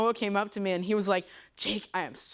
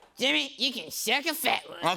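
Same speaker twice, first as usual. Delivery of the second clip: voiced as a cartoon character; 3 semitones higher than usual. Performing a practiced line on request, Cartman voice. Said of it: "I even started trying out a couple of my lines in a Cartman voice".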